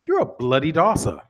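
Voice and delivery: mock British insult, crisply put; prim mock-British trash talk; hoity-toity British. Shown as a demonstration. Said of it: "super hoity-toity for us".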